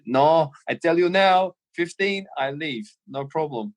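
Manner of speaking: slow, firm mock Scouse-German refusal; Scouse German accent. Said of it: "this weird Scouse German accent".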